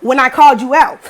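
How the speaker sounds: worked-up, emphatic telling-off; moderately angry call-out; heated. Retold or imitated. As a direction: re-enact a confrontation while still fuming. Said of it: "my blood is still boiling".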